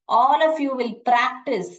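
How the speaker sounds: slow, loud, firm instruction to the class; firm call to class. Real, not acted. Teacher urging the online class to practice, slow and loud. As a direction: press every word home to the students.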